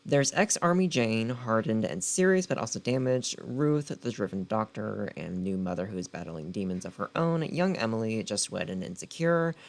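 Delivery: dramatic book-blurb narration; blurb read. Acted. Reading the back cover to her viewers, dramatic blurb read. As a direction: sell the story like a trailer.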